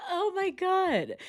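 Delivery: high, slow words after a burst of laughter; laughing. Real, not acted. Reacting to the replay, laughing then a high slow gasp.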